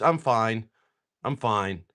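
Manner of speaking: tearful. Retold or imitated. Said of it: "she's in tears".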